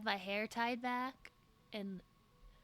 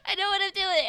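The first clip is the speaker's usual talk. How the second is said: high-pitched loud, half crying; high loud insistence; 7 semitones higher, 11 dB louder than usual. Shown as a demonstration. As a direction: squeal it defensively. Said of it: "same words said again".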